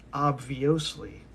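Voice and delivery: "obviously" drawn out on the wrong syllable; odd emphasis. Shown as a demonstration. Insisting on his own way to pronounce it, oddly stressed "obviously". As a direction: say "obviously" slowly, deliberately mis-stressed. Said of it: "but I like to pronounce it".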